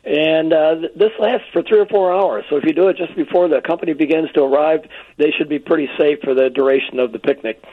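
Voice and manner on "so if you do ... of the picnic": hoarse, tired voice; voice giving out. Real, not acted. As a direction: voice fading from a sore throat. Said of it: "I'm losing my voice this morning".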